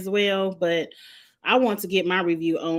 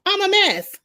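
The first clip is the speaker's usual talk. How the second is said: laughing; 11 semitones higher, 5 dB louder than usual. Real, not acted. Laughing at herself.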